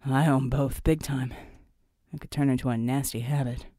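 lightly voiced, low soldier's reply; musing soldier John. John answers the team leader.

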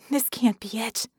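voiced, hushed dismay; a touch of dread, not truly whispered; mock stage whisper. Vicky faces the end of the world, dismayed half-whisper. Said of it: "Vicky whispered".

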